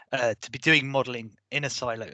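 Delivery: real voice giving out mid-sentence; losing voice. Real, not acted. Webinar presenter whose voice is failing, near-whispered. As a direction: voice cracking away into a whisper. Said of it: "Sorry, I'm losing my voice".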